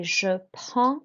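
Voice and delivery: "je prends" with D and S left silent; French "prends" without D or S; silent final consonants. Shown as a demonstration. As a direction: end "prends" on the nasal vowel. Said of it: "you don't pronounce the D and the S".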